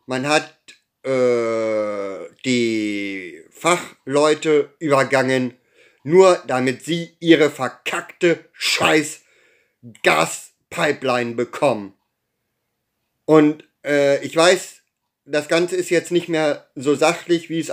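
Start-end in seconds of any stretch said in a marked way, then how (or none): 1.0-11.9 trembling voice, slow and strained; shaking with anger. Real, not acted. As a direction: voice shaking with real fury. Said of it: "ich zittere, äh, vor Wut".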